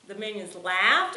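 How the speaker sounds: the minions laughed, rising at the end like a question; question tune. Shown as a demonstration. Mom showing her son a question by tone, rising. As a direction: turn the statement into a question just by the rise. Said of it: "you change the way you say it".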